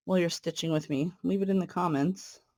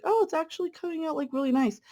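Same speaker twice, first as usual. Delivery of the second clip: excited; 11 semitones higher, faster than usual. Retold or imitated. Quoting her own delighted reaction.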